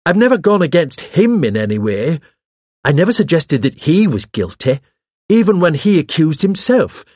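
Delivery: high, indignant protest; agitated self-defence. Acted. Hawes defends himself to the vicar, agitated.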